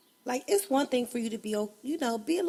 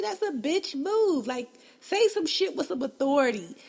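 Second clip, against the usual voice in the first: usual speaking voice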